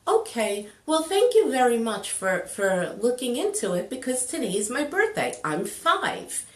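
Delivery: a hint of a composed child's voice; mature little boy. Little boy thanking the waitress, lightly voiced and cool. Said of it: "He's just being cool, he's being mature".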